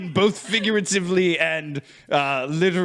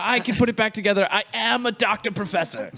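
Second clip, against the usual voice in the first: higher-pitched, showy reassurance; hammed-up doctor voice, pitched up; self-styled doctor professor; 5 semitones higher than usual. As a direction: reassure them like a self-proclaimed expert. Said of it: "be like".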